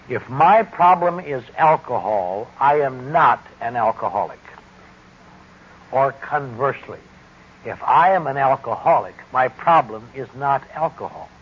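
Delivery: deliberate, clearly separated phrases with firm emphasis; measured, emphatic statement of a core belief; slow and distinct. Real, not acted. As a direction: spell it out slowly and clearly, pausing between clauses. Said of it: "say this slowly and clearly and distinctly".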